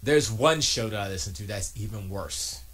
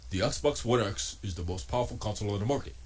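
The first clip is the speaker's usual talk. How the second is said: lightly voiced host impression, a bit lower and softer; Jose Betancourt's voice; 3 semitones lower, 4 dB quieter than usual. Quoting a rival host in his voice, mild impression. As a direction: read his claim as he would say it. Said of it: "let me do it in his voice".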